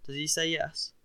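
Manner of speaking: panting, short of breath; breathless from running. A narrator's reading. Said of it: "out of breath after all that beating".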